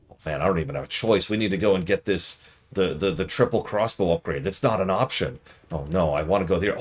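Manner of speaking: lightly hammed-up fake streamer hype; mock shoutcaster. A hint of a mobile ad streamer shouting over fake gameplay. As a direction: rattle it off like a fake hype caster. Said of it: "they're shoutcasting it".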